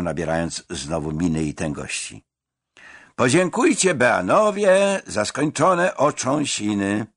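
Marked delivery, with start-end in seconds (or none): 3.2-7.1 solemn, raised announcement; ceremonial proclamation. Acted. Ceremonial proclamation to new students. (uroczyste, donośne ogłoszenie)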